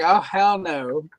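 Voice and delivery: slow, drawn-out refusal in an imitated Black accent; mock Black accent, dragged out with attitude; imitated assumed Black accent. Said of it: "she had assumed a black accent".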